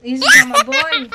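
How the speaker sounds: high, loud, laughing in disbelief; laughing question. Real, not acted. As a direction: laugh it out, amused. Child calls a dog "boi. (pergunta rindo, alto e agudo)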